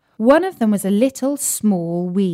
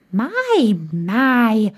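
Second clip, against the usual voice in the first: granny voice; 3 semitones higher, 3 dB louder than usual. Acted. Granny scolds fondly.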